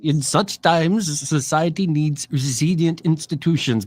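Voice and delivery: slow, lightly put-on Swiss accent like a Bond villain's aide; mock Swiss accent. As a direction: imitate the Swiss-accented guy from the clip, slowly. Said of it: "like, a Swiss accent".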